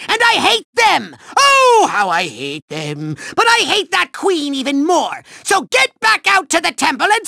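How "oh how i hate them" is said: seething loathing. Acted. Villain seethes over cute couples.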